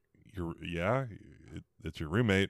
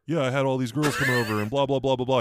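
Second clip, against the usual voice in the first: higher, slightly raised mock rant; mock yelling; 5 semitones higher, 5 dB louder than usual. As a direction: imitate a guy yelling through a breakup rant. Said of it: "He's yelling".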